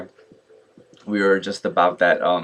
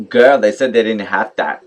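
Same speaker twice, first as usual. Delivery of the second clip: snippy, louder put-down; bitchy, cutthroat; 6 dB louder than usual. Retold or imitated. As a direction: imitate a nasty, dismissive counter guy. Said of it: "that bitchy, nasty, cutthroat".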